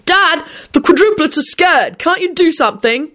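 high-pitched plea to Dad; urgent plea. Acted. Child to Dad about scared quadruplets, urgent plea. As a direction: beg a parent to act, high and alarmed. Child pleads with father during an alarm.

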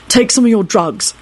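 soothing. A narrator's reading. Jamie calms Kenny, soothing. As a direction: coax him soothingly. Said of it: "Jamie told him soothingly".

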